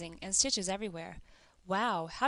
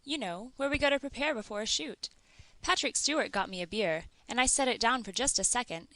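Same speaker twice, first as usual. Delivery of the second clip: distraught Brent; 2 semitones higher than usual. Acted. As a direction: pour it out in a wailing rush. Narrator voices Brent's tearful confession.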